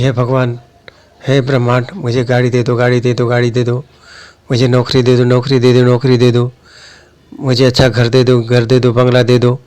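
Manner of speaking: monotone, repetitive begging chant; mock begging. Imitating people asking the universe for car, job, house, droning mock plea. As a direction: rattle off the demands like a droning wish list. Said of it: "कहीं आप भी तो नहीं मांग रहे".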